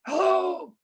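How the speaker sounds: put-on high, thin elderly woman's voice; weak old lady. Older lady phoning about the letter, weak high voice. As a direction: put on a frail old lady's high-pitched voice. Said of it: "through her voice, she sounded like she was a very, very weak person".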